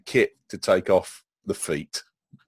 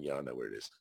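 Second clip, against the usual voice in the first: mountain lion voice; 9 semitones lower, 14 dB quieter, much faster than usual. Retold or imitated. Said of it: "the mountain lion turning up ... going".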